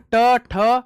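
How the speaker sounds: ढ and ण said slowly and clearly; slow teaching voice; slow listing. Shown as a demonstration. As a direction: count out the letters slowly. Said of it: "ट वर्ग आएगा ना".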